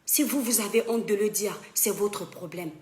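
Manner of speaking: usual speaking voice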